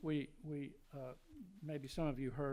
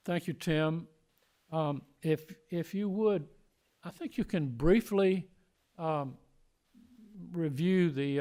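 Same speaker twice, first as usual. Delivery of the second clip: loud; 12 dB louder than usual. Real, not acted. Speaking up to speakerphone caller.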